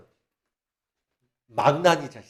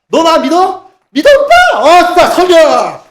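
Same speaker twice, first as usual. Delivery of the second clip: much higher, louder hyped shouting; nightclub party hype; 10 semitones higher, 11 dB louder than usual. Retold or imitated. Mocking churches as a nightclub, high loud party yells. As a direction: whoop it like a club dancer. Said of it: "나이트 클럽 마냥 이렇게 춤추다가".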